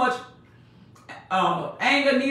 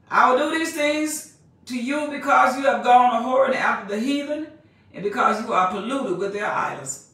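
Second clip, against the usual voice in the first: fiery preaching cadence; scripture reading, rising to a shout. Acted. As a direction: proclaim the verse at full force. Preacher reads scripture aloud.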